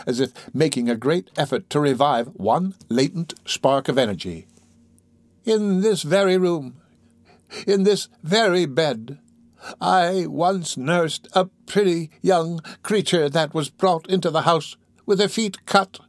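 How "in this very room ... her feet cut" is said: high, slow deathbed confession; dying old woman. Acted. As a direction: confess haltingly in a high, drawn-out voice.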